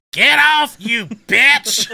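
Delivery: high, loud yelled quote; retold yell. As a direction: shout it like he's being dragged. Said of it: "and he says".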